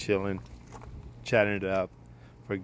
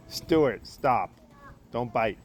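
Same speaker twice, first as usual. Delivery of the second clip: sharp raised voice at a dog; scolding the dog; 4 semitones higher, 6 dB louder, much slower than usual. Real, not acted. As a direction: call the dog off firmly. Scolding the dog mid-story.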